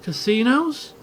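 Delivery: casinos? asked high with a rising lift; a pricked-up, intrigued Casinos?; surprised question. Real, not acted. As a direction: perk up at Casinos?. Reacting to read word.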